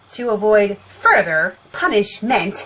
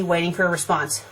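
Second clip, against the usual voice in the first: plain reading voice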